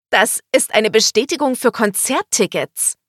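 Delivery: high, loud, excited announcement; thrilled. A narrator's reading. Woman waves her concert confirmation about, thrilled. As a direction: burst out with the good news. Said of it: "Sie wedelte begeistert mit dem Papier herum".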